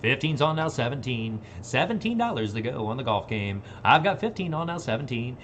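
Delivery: rhythmic auction chant; auctioneer. Acted. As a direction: rattle off the bids.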